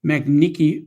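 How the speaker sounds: halting try at French très magnifique; stumbling into French magnifique; foreign accent in French. Real, not acted. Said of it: "I love when I try to speak French".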